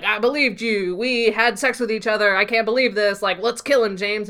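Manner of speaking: mildly heated mock outrage; worked-up retelling of an accusation; charged up. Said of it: "all, you know, charged up".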